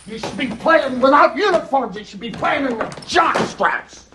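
angry coach chewing out team; halftime pep speech. Real, not acted. Coach yelling at losing team.

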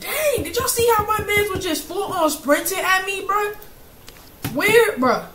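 breathless after screaming; out of breath. Real, not acted. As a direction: talk while catching your breath. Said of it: "I'm out of breath".

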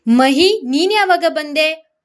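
surprised. Acted. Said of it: "ಗೊತ್ತಿಲ್ಲದವರು ಆಶ್ಚರ್ಯಪಟ್ಟರು". (ಆಶ್ಚರ್ಯದ ಧ್ವನಿ)

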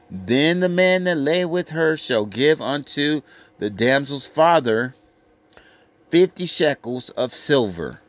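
slow, weighty scripture reading. Acted. Preacher reading the law to the crowd, slowly and weightily. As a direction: read the verse out slowly like a preacher. Reads Deuteronomy aloud.

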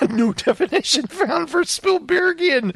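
like a text-to-speech app reading a result; mock Google Translate voice. Reading Google Translate's answer to his cohost, in a mock robot voice. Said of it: "Let's see if a Google Translator can".

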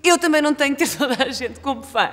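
cheeky comeback. Retold or imitated. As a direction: re-enact a brazen answer back. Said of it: "e eu digo". (resposta descarada, em voz alta)

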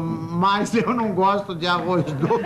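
slow, laughing through the line. Real, not acted. Punchline laughing.

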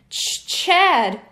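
nervous stutter on Chad. Acted. Nervous boy giving his name, stuttering. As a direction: trip over the start of the name. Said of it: "the boy stuttered".

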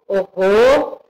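slow, deliberate "Hotel com H O"; teacher stressing the letters H and O; slow spelling out. Shown as a demonstration. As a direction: spell it out slowly for the class. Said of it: "Olha a separação".

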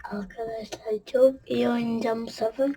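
soft unvoiced whisper, leaning on çok. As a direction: confide it in a hush. Whispered promise to viewers. (fısıltıyla söz verir)

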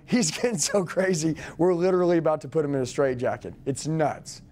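lightly laughing as if it's absurd; faked laughing. Shown as a demonstration. Coach showing trainees the sales line, faking a laugh. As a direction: say it through a put-on chuckle. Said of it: "make it sound like you're laughing".

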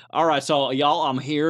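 low, put-on Texas twang; imitating a politician's sudden Texas accent; mock Texas accent. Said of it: "starts having a Texas accent for no reason".

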